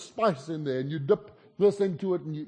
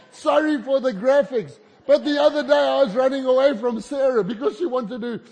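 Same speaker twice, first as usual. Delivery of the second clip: giggling while talking, a little louder and higher; laughing through words; 4 semitones higher, 5 dB louder than usual. Real, not acted. Preacher to the church about his pants, laughing. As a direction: laugh it out, embarrassed.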